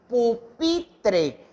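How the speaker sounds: "pupitre" said with the force of the voice on "pi"; stress on the middle syllable. Shown as a demonstration. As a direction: hit the PI in "pupitre". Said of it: "hago mayor fuerza de voz en pi". (énfasis de voz en «pi» de «pupitre»)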